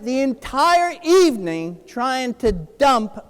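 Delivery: slow words breaking into laughter; laughing. Real, not acted. Telling the audience about ditching Jared, laughing slowly. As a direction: laugh through it as you remember.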